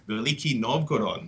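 city name said with a light Russian accent. Shown as a demonstration. Tour host showing off his Russian accent to listeners. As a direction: give Veliki Novgorod a touch of Russian accent. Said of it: "That was my Russian accent right there".

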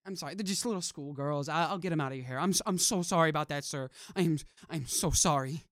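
loud, rattled apologetic cleaner; flustered janitor. Acted. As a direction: babble apologies, caught red-handed. Player bluffs as cleaning crew.

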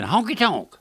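a hint of squawky parrot. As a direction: imitate a pet parrot blurting it out. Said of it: "He kept saying".

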